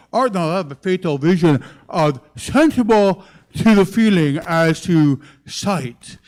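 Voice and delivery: slow, hammed-up Louisiana Cajun recitation; Shakespeare in an open-mouthed Louisiana drawl; drawn-out comic Louisiana accent, slipping off target; Troy Landry. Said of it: "I'm gonna be Troy Landry doing".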